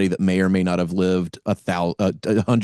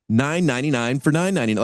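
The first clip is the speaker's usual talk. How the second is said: quick hyped sales pitch; infomercial voice; 5 semitones higher, faster than usual. Retold or imitated. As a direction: rattle it off like a TV ad. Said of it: "I read it in, like, the quick infomercial voice".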